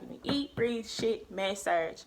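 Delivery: imitated insistence, words run together; retold firm instruction. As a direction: repeat the tutor's orders briskly. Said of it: "she's so adamant about this".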